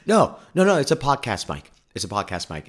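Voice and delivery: retold flustered no no no; flustered denial. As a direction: protest to the officer in a rush. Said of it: "eventually I went".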